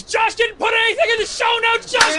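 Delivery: loud, high shout calling out. Real, not acted. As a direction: yell across the room.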